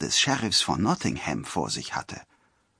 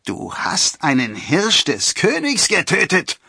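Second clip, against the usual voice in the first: high, loud outcry; raised-voice accusing shout; shouted accusation; 9 semitones higher, 5 dB louder than usual. A narrator's reading. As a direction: cry out in outrage. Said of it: "schrie einer der Förster".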